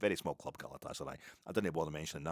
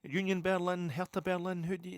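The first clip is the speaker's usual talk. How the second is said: much higher, louder, teasing tone; mock cheeky question; 12 semitones higher, 5 dB louder than usual. Asking the kebab man his team, high and teasing. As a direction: lob the question up high for a laugh. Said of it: "just for a laugh, I said".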